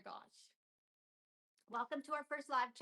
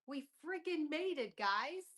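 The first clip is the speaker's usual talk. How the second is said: louder, punchy celebration; triumphant whoop to viewers; excited cheer; 5 semitones higher, 6 dB louder, slower than usual. Real, not acted. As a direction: cheer it to the fans. Celebrating milestone.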